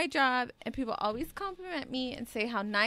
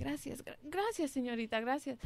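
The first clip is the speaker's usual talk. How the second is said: Spanish thanks; 8 dB quieter than usual. Retold or imitated. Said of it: "but in Spanish, right?".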